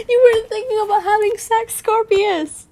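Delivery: high, fast reproach; angry scolding. A narrator's reading. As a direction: rattle off a heated telling-off. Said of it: "I boiled with anger".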